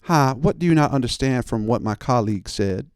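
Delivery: a hint of a fake-polite clerk; lightly put-on service politeness; customer service voice. Imitating the clerk's customer service voice, barely shifted. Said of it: "put on her best customer service voice".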